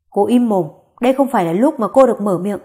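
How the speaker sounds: lightly voiced angry old man, a bit fast; angry scolding. Grandfather scolds the mother-in-law, a mild angry rebuke. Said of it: "Ông Tần tức giận quát bà Lý".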